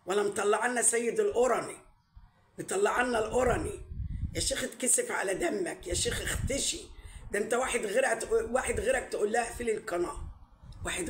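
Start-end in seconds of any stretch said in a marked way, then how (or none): 4.4-6.8 scolding through a laugh; scornful chuckle. Real, not acted. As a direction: laugh at him while shaming him.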